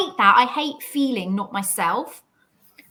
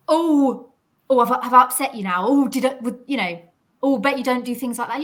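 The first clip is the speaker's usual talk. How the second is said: mocking digs; 4 dB louder than usual. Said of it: "makes little digs like".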